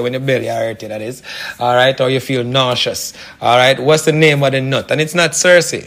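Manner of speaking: lightly put-on Jamaican patois accent; casual radio plug in a light Jamaican-style accent. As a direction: slip into a mock island patois accent, half-hearted. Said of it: "Horrible accent, I'm sorry".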